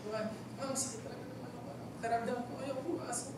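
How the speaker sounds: put-on soft, weak plea of a sick kid; whiny sick plea. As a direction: play a feverish teen begging to stay home. Sick kid pleads to strict mom. (mahinang pagmamakaawa ng batang may sakit)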